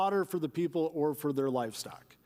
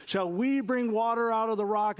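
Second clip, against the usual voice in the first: angry rebuke; 4 semitones higher than usual. Retold or imitated. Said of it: "it looks like he's angry".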